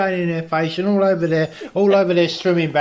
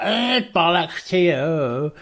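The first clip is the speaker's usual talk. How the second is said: broken English Kim; 3 semitones higher, much slower than usual. Retold or imitated. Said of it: "And he's like".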